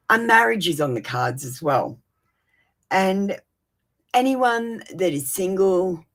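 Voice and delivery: steady, measured reading voice; tarot reading. Acted. To her live viewers, a steady tarot reading. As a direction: deliver the cards like a calm oracle.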